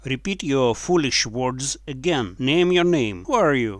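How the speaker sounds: loud, harsh bark of a bully demanding a name; angry demand. Acted. John bullying the captured prince, angry and loud.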